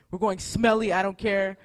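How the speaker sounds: gleefully carefree; laughing declaration. Retold or imitated. Rushing her friend out, pastor laughs that they skip baths.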